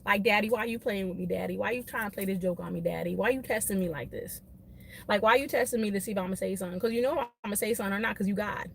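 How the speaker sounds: a lightly played quiet complaint to God; mock prayer to God. She asks God why he tests her patience, hushed. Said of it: "I, I be like".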